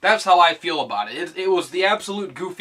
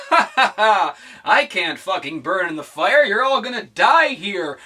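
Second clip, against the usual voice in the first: slow, louder laughing taunt; mock Daenerys taunt; 3 semitones higher, 5 dB louder than usual. Vlogger mocking Daenerys gloating in the fire, laughing taunt. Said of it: "she's standing there in the fire".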